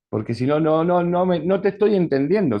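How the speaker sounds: firm interruption. Acted. Therapist stops crying patient.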